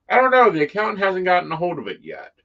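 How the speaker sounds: mock exasperation. Mock answering form question.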